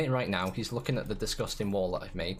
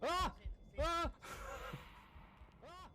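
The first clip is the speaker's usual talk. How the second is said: startled cry; 11 dB quieter, slower than usual. Real, not acted. Startled cries in game.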